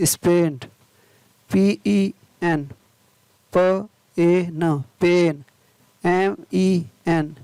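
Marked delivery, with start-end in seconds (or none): 3.5-4.8 slow, separate phonics sounds; word broken slowly into its sounds; sounding out. Shown as a demonstration. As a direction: say each sound on its own. Phonics teacher sounding out spelling.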